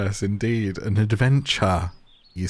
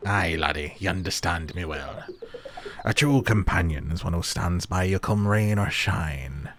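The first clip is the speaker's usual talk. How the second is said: put-on old sea-dog character; 2 semitones lower than usual. Sailor agrees with the player about loyalty, lightly voiced sea dog. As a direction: play a hearty seafarer agreeing.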